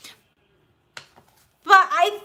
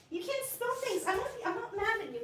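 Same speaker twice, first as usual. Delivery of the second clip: laughing; 7 semitones higher, 13 dB quieter than usual. Real, not acted. Laughing at kittens after spill.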